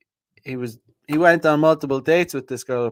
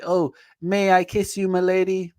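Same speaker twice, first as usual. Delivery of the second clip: mock gentleman; 5 semitones higher than usual. Mocking overly polite gentleman.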